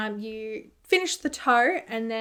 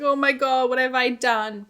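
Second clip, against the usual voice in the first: mock freak-out; 2 semitones higher, 5 dB louder than usual. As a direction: replay a mild freak-out. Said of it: "freaking out".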